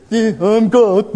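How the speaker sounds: laughing slow "Yeah, I'm God"; God laughing at the oblivious listener. Retold or imitated. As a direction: laugh through the reveal. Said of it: "you still didn't notice".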